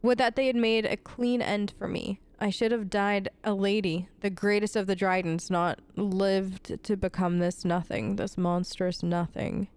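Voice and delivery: understated dramatic journal reading; reading a journal aloud. A narrator's reading. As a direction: read out a bitter noblewoman's diary, restrained. It looks like Sophia's journal.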